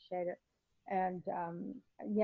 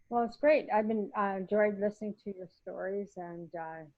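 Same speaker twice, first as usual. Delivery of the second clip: hiccups. Real, not acted. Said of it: "getting the hiccups".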